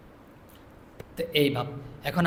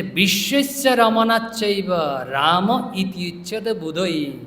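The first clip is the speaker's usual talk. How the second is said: slow verse recitation; slower than usual. Acted.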